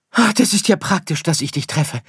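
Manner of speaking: high, eager call; little star hailing someone nearby; calling to a stranger. Acted. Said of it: "rief Sirius dem Fremden zu". (dem Fremden hoch zurufen)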